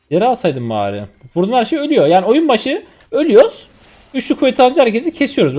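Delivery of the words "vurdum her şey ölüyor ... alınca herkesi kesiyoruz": excited. Real, not acted. Thrilled by his strong build.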